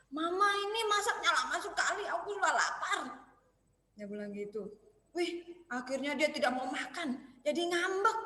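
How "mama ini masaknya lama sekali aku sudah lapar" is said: mock-angry high child, half laughing. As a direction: pretend to sulk at mom, with a laugh. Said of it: "Tiwi marah-marah sama mamanya".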